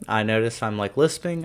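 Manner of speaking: slight lisp around retainers; talking with retainers in; wearing a retainer. Real, not acted. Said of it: "I have my retainers in".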